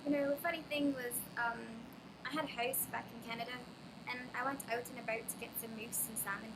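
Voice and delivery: mock Canadian accent, hammed up. Shown as a demonstration. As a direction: put on a stereotyped Canadian accent. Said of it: "they do not talk like that".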